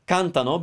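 CANtano, stress on the first syllable; stress off the ending. Shown as a demonstration. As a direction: keep the A of the ending in cantano unstressed. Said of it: "I don't stress the A".

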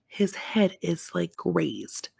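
hushed, breathy whisper. Real, not acted. Whispering the shocking detail to viewers. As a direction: lean in and whisper the gory detail.

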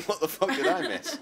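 laughing. Real, not acted. Friend laughs at missed Snapchat joke.

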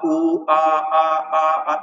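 wavering आ sounds rising and falling; varying vowel demo. Shown as a demonstration. Teacher demonstrates changing frequency to students, wavering vowels. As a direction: show a voice that keeps shifting pitch. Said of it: "बार बार आवाज का".

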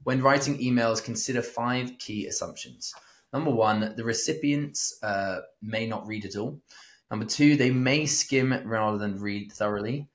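measured list reading, each number marked; reading aloud. Acted. Co-host reading five email assumptions, measured read-aloud. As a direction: read out the numbered points evenly.

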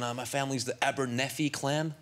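lightly imitated American accent; a touch of proud American tourist; American guy. American tells a Scot about his clan, light American accent. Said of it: "an American guy".

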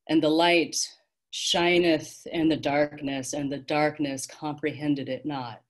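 measured, solemn scripture quotation; triumphant. A narrator's reading. Guide quotes scripture to children, triumphantly. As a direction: proclaim it, opening strong then settling. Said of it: "shone out at them triumphantly".

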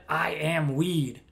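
slow, drawn-out mocking quote; incredulous quote. Comedian marvelling at what the man really said, mocking quote. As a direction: stretch each word in mock disbelief. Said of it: "My man really said".

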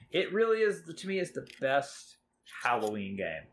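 bursting with enthusiasm, voice jumping high; excited. Real, not acted. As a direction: gush about your favourite game. Emphatic praise of favourite game.

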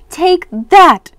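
high, loud attacking shout; battle cry. A narrator's reading. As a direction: cry out while swinging a sword. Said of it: "cried Mommy".

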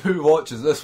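derisive laugh. Real, not acted. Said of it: "that's my derisive laugh".

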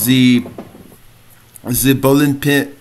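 halting, badly faked German accent; hesitant mock German accent; attempted German accent. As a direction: try a German accent and falter. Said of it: "I can't do that".

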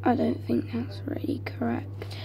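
hushed whisper. Real, not acted. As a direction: keep it to a whisper. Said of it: "it's getting really hard to breathe in here".

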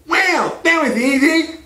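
high-pitched nerd impression; Steve Urkel. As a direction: do a high, squeaky sitcom nerd.

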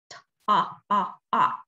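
short ah repeated for the middle of taught; sounding out vowel. Shown as a demonstration. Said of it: "middle sounds".

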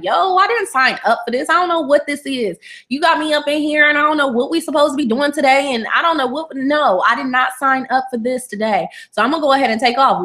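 lightly voiced fed-up employee; fed-up organs. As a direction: huff like a worker quitting a shift. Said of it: "Everybody's just like".

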